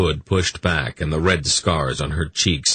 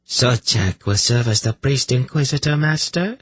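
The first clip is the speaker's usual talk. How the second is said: fully in charge; 7 semitones higher than usual. A narrator's reading. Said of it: "in the tone of one who feels fully in charge".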